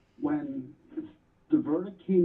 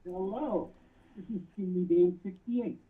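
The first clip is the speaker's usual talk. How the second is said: muffled; 4 semitones higher than usual. Real, not acted. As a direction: hand over mouth on the phone. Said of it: "you're kinda muffled".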